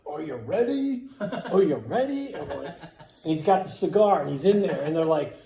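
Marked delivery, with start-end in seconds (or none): 0.1-2.3 drawn-out mock holler; raised, stretched-out call; imitated yelling. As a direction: holler it like a rowdy party guy, not full volume. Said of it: "he just kept yelling".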